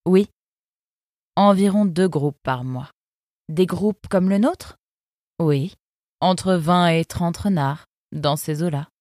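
a cool, sardonic river guard; fox guard's voice. Acted. Eunice sizing up the arrivals, lightly voiced sardonic fox. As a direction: speak down to the newcomers, unimpressed.

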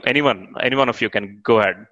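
ordinary talk, nothing marked

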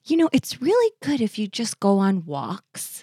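sweetly passive-aggressive mom impression. Mom hinting to her daughter about her weight, passive-aggressive. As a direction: imitate a mother dropping a loaded hint nicely. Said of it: "She's the passive aggressive kind of brutal".

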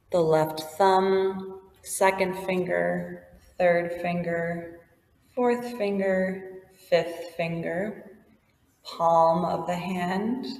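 calm, even yoga nidra guide voice; guided meditation. Acted. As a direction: gently lead the listener through the body.

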